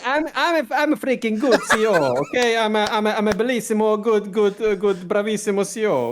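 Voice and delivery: boastful CEO with a put-on Italian accent; playful Italian-accented self-praise; mock Italian accent. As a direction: brag in hammed-up Italian English.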